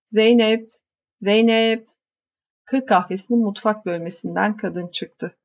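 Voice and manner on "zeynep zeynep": calling out. Acted. Calling his wife from the kitchen.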